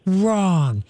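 low, slow, deep "be nice"; a stern, deep, drawn-out correction to a growling dog; deep thunder voice. Shown as a demonstration. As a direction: drop your voice way down and slow it like distant thunder. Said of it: "in a deep thunder voice".

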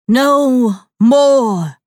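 loud commanding cry of many voices; shouting. A narrator's reading. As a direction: roar it like a chorus of spirits. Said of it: "Zara shouted in the voice of many".

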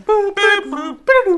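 high robotic beep noises; computer processing. Pretend. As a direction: chirp like a dialing computer. Imitating computer beeps on call.

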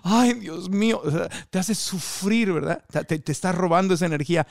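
whiny high suffering lament, lightly done; a hint of a sobbing soap-opera victim; mock victim character. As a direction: play the wailing TV victim, half-mocking. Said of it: "los personajes en la tele que ella hace son de víctima".

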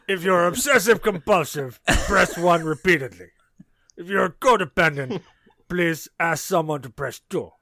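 lightly voiced cartoon villain hotline recording; hint of cartoon villain as automated menu; Strong Bad. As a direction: read phone menu options in a character voice. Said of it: "in the strong, bad voice".

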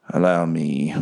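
lightly voiced old bat; a hint of an unhurried elder; older voice. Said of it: "you hear an older voice".

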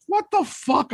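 high incredulous squeal; shocked disbelief. Retold or imitated. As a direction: react in total disbelief. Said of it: "I'm like".

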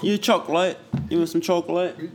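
high, exaggerated British voice; hammed-up British offer; mock British accent. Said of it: "had a good little accent".

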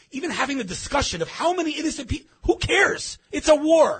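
fighting back tears on a rising, breaking voice; crying while talking. Real, not acted. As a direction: voice cracks high with real tears, pushing through. Emotional about innocent deaths.

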